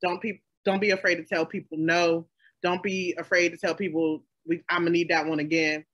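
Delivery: ordinary talk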